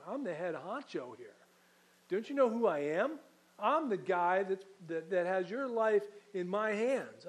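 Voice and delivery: the head honcho throwing his weight around; angry boast. Acted. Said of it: "Pilate is getting angry with Jesus".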